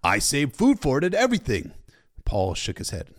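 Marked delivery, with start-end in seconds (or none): 0.0-1.7 lightly voiced story character, raised pitch. A narrator's reading. Paul telling Sam about saved food, lightly put-on character voice. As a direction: give the character a higher voice.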